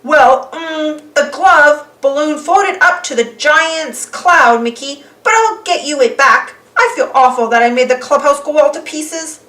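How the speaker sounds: a sheepish villain apologizing; nervous Pete. Acted. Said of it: "Pete nervously stepped out".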